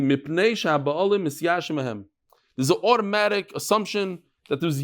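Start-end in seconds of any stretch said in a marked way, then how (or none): 0.0-2.0 measured reading with "sha'ba'alim" drawn out; slow reading. Shown as a demonstration. Teacher rereading the Mishnah for the class, slowly. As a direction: read "Mipnei sha'ba'alim misyashim hem" slowly, word by word. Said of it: "let's read it slowly".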